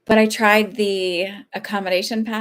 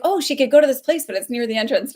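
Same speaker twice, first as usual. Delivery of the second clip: higher, louder mock-helpful staffer voice; lightly hammed-up helpful employee; chirpy staff member; 7 semitones higher, 7 dB louder than usual. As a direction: imitate an oblivious, cheery park worker. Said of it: "and he's like".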